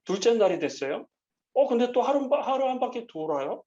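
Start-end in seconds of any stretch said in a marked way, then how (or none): 1.5-3.6 surprised disbelief. Retold or imitated. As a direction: act amazed they circle again. Jericho people see Israel circling again. (또 도는 걸 보고 놀란 목소리)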